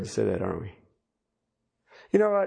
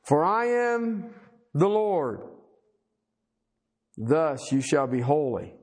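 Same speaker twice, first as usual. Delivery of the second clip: scripture reading. Acted. Preacher reading God's command to the congregation, solemn scripture reading. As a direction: read out God's words in spaced, weighty phrases.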